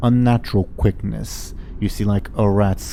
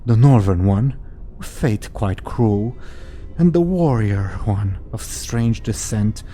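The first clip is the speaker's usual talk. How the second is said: ominous prophecy. Acted. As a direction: intone it like a seer's verse. Hag recites rhyming prophecy.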